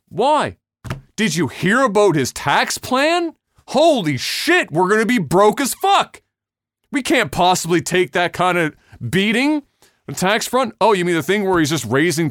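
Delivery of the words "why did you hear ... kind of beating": mock panic. Mocking panicked voter.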